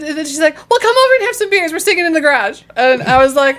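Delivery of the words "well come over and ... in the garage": tipsy invitation. Retold or imitated. Imitating drunk friend inviting over.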